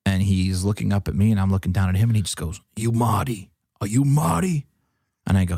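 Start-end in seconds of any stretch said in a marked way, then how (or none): 2.8-4.7 imitated Michigan accent, rising on the repeat. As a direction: question him in a put-on Michigan accent. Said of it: "a very classic Michigan accent".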